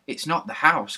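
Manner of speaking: sudden excited realisation; excited cry. A narrator's reading. Larry crying out to the others, excited. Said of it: "cried Larry".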